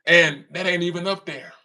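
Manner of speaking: normal talking voice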